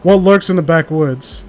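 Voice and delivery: slow ominous announcer read; spooky intro. Acted. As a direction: announce it like a horror show. Dramatic show intro.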